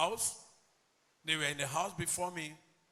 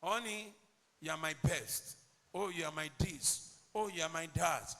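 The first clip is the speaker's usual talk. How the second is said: mock sweet talk; 3 semitones lower than usual. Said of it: "They will give you sweet words".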